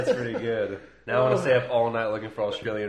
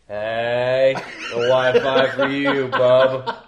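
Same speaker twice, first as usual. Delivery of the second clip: hammed-up neighbour; 9 dB louder, slower than usual. Acting a neighbour using someone's Wi-Fi.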